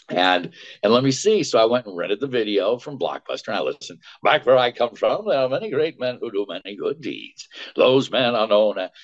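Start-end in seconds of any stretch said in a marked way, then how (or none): 4.2-8.9 hint of old movie wizard's orating; Frank Morgan. Actor recalls the rented Wizard video, lightly imitating its wizard. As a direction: lightly imitate a film wizard's grand speech. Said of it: "I discovered I could do Frank Morgan".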